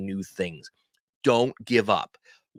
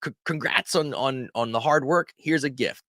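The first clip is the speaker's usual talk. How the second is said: higher, bright congratulating voice to a friend; cheerful congrats; 4 semitones higher than usual. Pretend. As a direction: cheer them on for their milestone. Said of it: "you wanna say".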